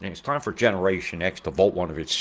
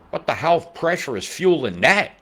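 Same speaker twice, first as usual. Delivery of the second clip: incredulous; 9 semitones higher, 7 dB louder than usual. Real, not acted. Disbelief at the pressure chart.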